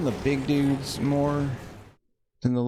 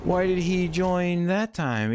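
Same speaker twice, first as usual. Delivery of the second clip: incredulous; 8 semitones higher than usual. Real, not acted. Confused at game enemy.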